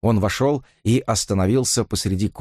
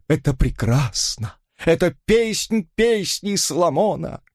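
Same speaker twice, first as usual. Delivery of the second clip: sobbing plea; 8 semitones higher than usual. A narrator's reading. Robert sobbing on his knees begs Elisa to marry. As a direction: beg on your knees through sobs. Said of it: "рыдая".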